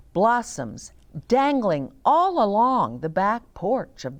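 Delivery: gentle read-aloud storytelling voice; story narration. A narrator's reading. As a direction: read it to the grandchildren, unhurried. Reading the picture book aloud.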